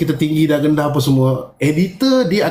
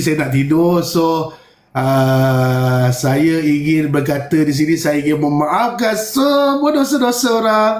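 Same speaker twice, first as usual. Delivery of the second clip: mock bedtime video. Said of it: "buat V T T kat".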